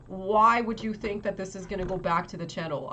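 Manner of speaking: baffled question, lightly acted; mildly incredulous challenge; retold confusion. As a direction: replay your disbelief, leaning on the why. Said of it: "I was so confused".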